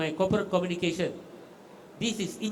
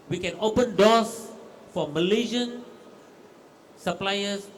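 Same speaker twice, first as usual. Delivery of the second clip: louder and slow, pressing it home; emphatic promise; 3 dB louder, slower than usual. Real, not acted. Agency head pledging to suppliers, louder and slow. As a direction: make it a firm pledge.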